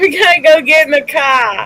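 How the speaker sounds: put-on Boston accent. Acting out how he would say "car", sounding like one of the Kennedys, in a Boston accent. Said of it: "it sounded like he had a Boston, Massachusetts a- accent".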